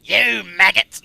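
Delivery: loud, slow drill sergeant yell; Soldier bellow. Retold or imitated. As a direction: bellow at the recruits. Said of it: "Oh, soldier".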